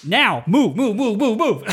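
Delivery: high urgent "move, move" shouts; retold hurry-up yell. Pipe major hurrying kids upstairs, high urgent shouting. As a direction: herd them up the stairs.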